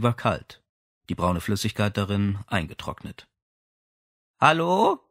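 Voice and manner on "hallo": put-on bright high girlish call. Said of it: "war plötzlich eine Stimme zu hören".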